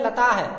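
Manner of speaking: "लता है" with a full hai at the end; wrong visarga. Retold or imitated. Teacher showing what not to read, mispronounced demonstration. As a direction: say "लता है" as lataa-hai, the mistaken reading. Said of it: "बहुत सारे छात्र इसको पढ़ते हैं".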